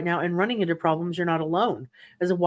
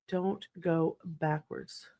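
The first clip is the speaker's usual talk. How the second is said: "Don't go backwards" said slow and much softer; slow soft emphasis; 9 dB quieter, much slower than usual. Real, not acted. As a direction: stretch "Don't go backwards" out slowly and quietly. Repeating advice to viewer.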